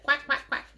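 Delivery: duck quacks. Retold or imitated. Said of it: "sang out a quack so clear and strong".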